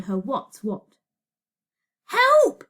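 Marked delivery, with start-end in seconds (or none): 2.1-2.6 high, very loud scream of HELP; screamed plea. A narrator's reading. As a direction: scream HELP at full urgency. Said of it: "she screamed".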